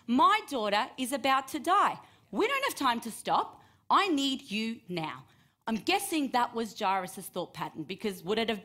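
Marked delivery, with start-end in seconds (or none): 0.1-2.0 louder and higher, pleading hard on my; desperate plea. Pretend. Father pleads with Jesus, panicked and loud. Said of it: "Would you be thinking". 2.3-5.2 urgent plea. Pretend. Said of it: "Would you be thinking".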